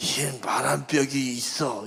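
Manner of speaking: rough, boozy-sounding reading. Showing how Baek Seok's poem line should be read: rough, boozy voice. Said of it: "막걸리 젖은 목소리로 ... 이렇게 읽어줘야지".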